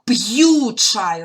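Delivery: п'ю чай said very slowly with a clear break between п and ю; separated pronunciation. Shown as a demonstration. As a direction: stretch п'ю so the й is heard. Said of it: "розділяємо апострофом".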